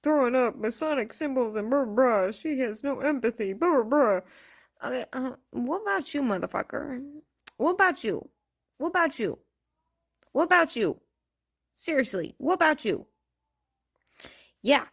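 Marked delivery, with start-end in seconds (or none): 0.0-4.2 loud, dismissive parody of Lolita's critics; mock the critics and wave them off. Parroting the critics of Lolita with loud mocking blah blah. 5.5-13.1 high, loud repeated what about you; demanding challenge. Real, not acted. Turning on Lolita's critics, she demands loudly what about you.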